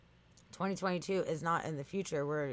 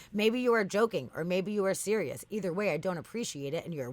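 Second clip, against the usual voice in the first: mock scolding; 3 semitones higher, 4 dB louder than usual. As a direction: act out a chatbot losing patience. Acts out chatbot scolding user.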